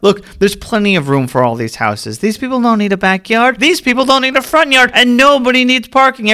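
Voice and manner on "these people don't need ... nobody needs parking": excited rant. Acted. Landlord rant building up.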